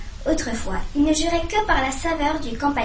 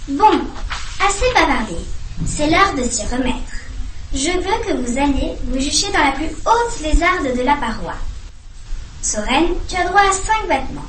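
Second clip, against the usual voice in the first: stern owl teacher; 2 semitones higher than usual. Acted. Owl teacher addresses owlets.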